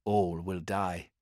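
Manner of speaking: slow, heavy verdict; grim pronouncement. Acted. Helios warning the Primaris Marine, grim and slow. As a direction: let each word fall slowly. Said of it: "He looked to the Primaris Marine".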